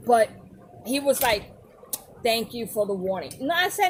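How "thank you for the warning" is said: imitating a reluctant husband's loveless thanks; no love. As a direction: mumble it dutifully, without feeling. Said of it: "he had, like, no love".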